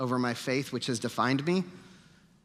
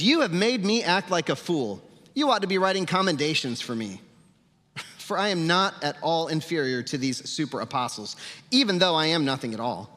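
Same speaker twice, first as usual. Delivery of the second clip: fired-up sarcasm, pitched up; Paul/character; 3 semitones higher than usual. Acted. Preacher reading Paul's letter to the church, fired-up sarcasm. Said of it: "Paul's getting fired up in this letter".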